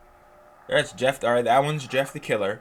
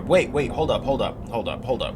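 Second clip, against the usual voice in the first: urgent interruption; 2 semitones higher, 5 dB louder than usual. Real, not acted. Stopping at shocking news.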